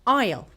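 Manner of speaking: "isle" said like "aisle"; "isle" with the S skipped entirely; silent S. Shown as a demonstration. Teacher showing the skipped sound, "isle" with silent S. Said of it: "we just skip it like".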